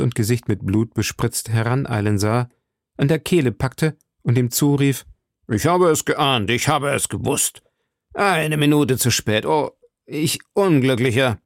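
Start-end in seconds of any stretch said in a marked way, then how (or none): 5.5-11.4 raised, dismayed lament; anguished outcry. A narrator's reading. Lord Winter grabs the assassin too late, anguished outcry. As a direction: cry out in bitter self-reproach.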